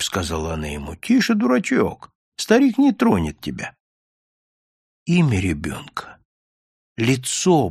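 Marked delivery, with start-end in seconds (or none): 0.9-3.7 hushing. A narrator's reading. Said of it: "он поднял плач".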